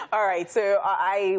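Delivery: laughing. Real, not acted. Host still laughing while restarting.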